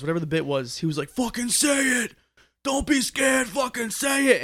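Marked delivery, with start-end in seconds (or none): 1.1-4.4 high-pitched mock scream at no extra volume; strained, held-back yell, high and drawn out; imitated heckler's scream. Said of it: "this guy was screaming".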